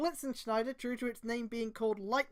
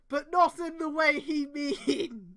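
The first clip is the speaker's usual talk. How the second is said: laughing sarcasm; 4 semitones higher, 6 dB louder, slower than usual. Real, not acted.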